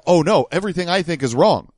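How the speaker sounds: hammed-up dawning horror; a touch of panicked disbelief; mock realization. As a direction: act out a sudden crisis of belief. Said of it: "he will see this and be like".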